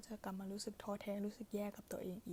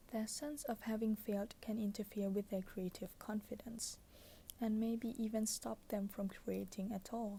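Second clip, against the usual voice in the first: pillow talk; much slower than usual. Acted. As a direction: read it like a bedtime whisper. Reads book passage softly.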